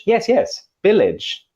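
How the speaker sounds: high, eager student saying B for V; student who can't hear it. Acted. Teacher acting a student mispronouncing village, high and eager. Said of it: "you have these wonderful exchanges between".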